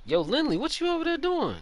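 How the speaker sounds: playful call across the course. Real, not acted. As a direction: shout it over to Lindley. Calling out to teammate.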